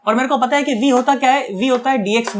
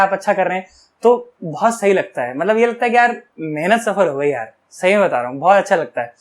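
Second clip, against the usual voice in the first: a bit emotional; 4 semitones lower than usual. Real, not acted. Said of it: "थोड़ा emotional हो गया".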